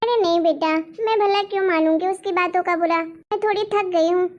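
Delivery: lightly voiced tired old grandmother, a bit low. Grandmother reassuring her son, lightly voiced and tired.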